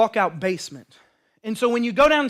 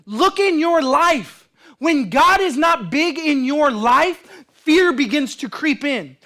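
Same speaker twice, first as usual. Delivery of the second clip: emphatic preaching; 6 semitones higher, 5 dB louder than usual. Real, not acted. Preaching at full force.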